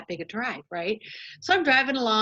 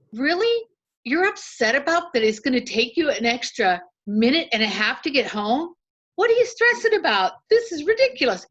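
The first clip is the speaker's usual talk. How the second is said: mock self-scolding; 3 semitones higher than usual. Driver retelling scolding herself out loud, mock incredulous. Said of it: "I went out loud".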